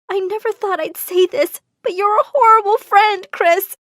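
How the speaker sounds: high, upset accusation; angry, wounded, voice rising in volume; furious reproach. A narrator's reading. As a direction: let your friend have it. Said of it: "she seemed furious".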